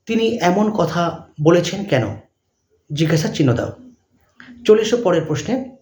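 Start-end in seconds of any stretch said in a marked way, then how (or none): 0.1-2.2 dictating. Shown as a demonstration. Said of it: "dash দিয়ে লিখবে".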